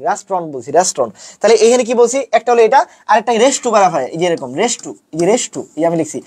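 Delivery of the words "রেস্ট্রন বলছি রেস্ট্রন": "রেস্টুরেন্ট" low, in two syllables, res-tron; "রেস্টুরেন্ট" dropping in pitch, with no middle vowel; correct pronunciation. Shown as a demonstration. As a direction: say "রেস্টুরেন্ট" as "restron".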